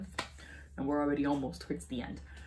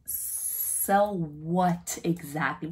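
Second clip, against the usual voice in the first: slow disbelief; 4 dB louder, much slower than usual. Retold or imitated. Drawn-out disbelief at husband.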